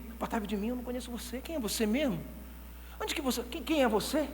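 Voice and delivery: quiet dismissal. Acted. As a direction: turn them away quietly. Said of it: "E você ouvir". ("Apartai-vos de mim" dito baixo e frio)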